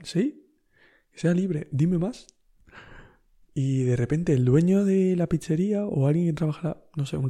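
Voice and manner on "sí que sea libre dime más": a playful "yes, tell me more", high on the first word; egging the stranger on with fake enthusiasm; mock eager. Humouring the stranger, mock-eager.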